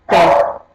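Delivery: Pé called out loud with an open é; loud open E demo. Shown as a demonstration. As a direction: belt Pé, opening the é wide. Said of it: "um E diferente do outro".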